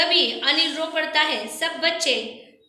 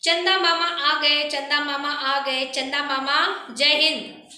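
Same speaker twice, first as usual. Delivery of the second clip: joyful cheering; 2 semitones higher than usual. Acted. Children welcome Chanda Mama with joyful chanting. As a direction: cheer the moon uncle's arrival like clapping children. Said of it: "सब बच्चे खुशी से तालियां पीटकर".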